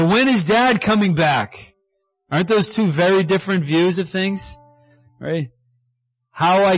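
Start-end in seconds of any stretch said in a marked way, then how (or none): 0.0-1.7 higher, drawn-out impatient question; lightly acted childlike anticipation; eager waiting child. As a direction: ask like a kid waiting at the door.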